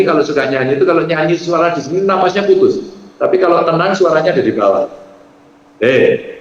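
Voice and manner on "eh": relaxed, grounded greeting from the chest; calm call from the belly; voice from below. Shown as a demonstration. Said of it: "itu enak, suaranya di sini".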